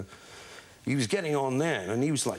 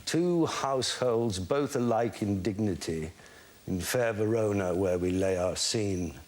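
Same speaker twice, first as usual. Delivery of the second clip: reciting Shakespeare. Shown as a demonstration. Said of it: "goes, uh, if I remember".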